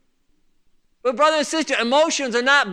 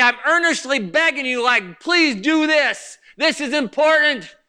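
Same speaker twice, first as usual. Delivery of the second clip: raised, insistent appeal; earnest pleading; 3 semitones higher than usual. Retold or imitated. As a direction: urge them as if begging. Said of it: "beseech you".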